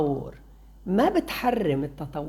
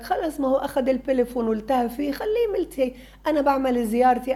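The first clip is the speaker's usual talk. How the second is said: dismissive parent; 5 semitones higher, faster than usual. Retold or imitated. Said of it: "في كتار أهل بقول لك".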